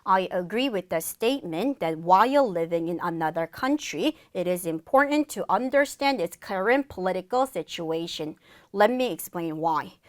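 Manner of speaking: slow, phrased English test answer; model reading. Shown as a demonstration. Teacher models the full answer, slow measured reading. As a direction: deliver it steadily in thought groups. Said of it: "큰 소리로 전달해 보도록".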